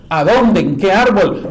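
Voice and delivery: put-on Daniel grilling the old man, loud and stern; stern interrogation. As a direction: pin the liar down.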